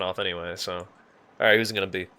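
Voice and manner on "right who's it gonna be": put-on Indian accent, lightly singsong. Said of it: "I like to use the Indian".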